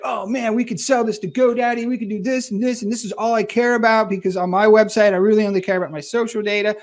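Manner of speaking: imitating a hyped-up investor spitballing; pumped up. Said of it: "getting really pumped".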